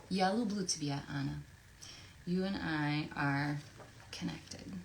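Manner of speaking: put-on Russian accent. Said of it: "do a Russian accent".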